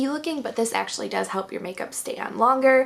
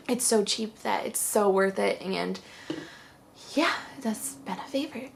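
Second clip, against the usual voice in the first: talking out of breath; slightly winded, out of breath; 4 dB quieter than usual. Real, not acted. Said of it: "I'm getting so out of breath".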